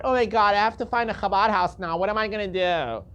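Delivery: hammed-up helpless complaint; mock panic. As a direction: mimic someone fretting over a trifle. Mocks listeners' complaint about hardship.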